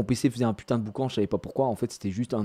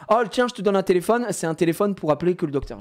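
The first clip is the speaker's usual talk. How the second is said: imitating his daughter; 6 semitones higher than usual. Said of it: "elle me dit".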